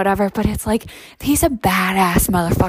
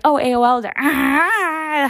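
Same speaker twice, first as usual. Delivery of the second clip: imitating dial-up noise; 5 semitones higher, slower than usual. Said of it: "I'm like".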